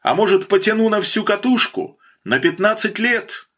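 high-pitched hail turning into a question; calling out. A narrator's reading. Bandit haggles with the officer from the bathhouse, calling out. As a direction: hail him, then push the question up high. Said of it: "Фролов снова окликнул его".

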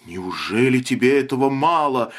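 ordinary delivery

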